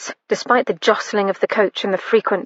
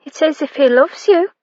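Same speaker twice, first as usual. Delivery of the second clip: earnestly; 6 semitones higher than usual. A narrator's reading. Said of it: "the little maid said earnestly".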